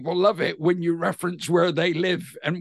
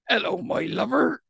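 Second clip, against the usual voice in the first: higher-pitched, friendly Devon greeting; Devon accent; 6 semitones higher than usual. Shown as a demonstration. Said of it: "whereas in Devon, we'd say".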